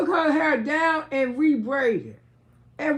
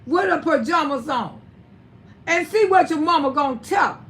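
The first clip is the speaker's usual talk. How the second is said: scolding son; 4 dB louder than usual. Retold or imitated. Mother tells son to take girlfriend to his mama, loud. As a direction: order him to take her home. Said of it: "I say".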